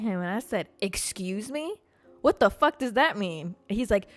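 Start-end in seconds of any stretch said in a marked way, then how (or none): 0.8-3.5 affronted comeback, rising on the first question; offended retort. Retold or imitated. Storyteller snaps back at man from the shop, offended. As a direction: take mild offense, then push back. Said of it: "I got so fucking offended".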